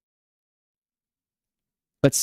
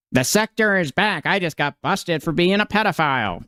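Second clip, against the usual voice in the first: higher, sing-song mock of the quote; 5 semitones higher than usual. Streamer mocking the banned man's comeback, sing-song sneer. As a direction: parody his line with a sneer.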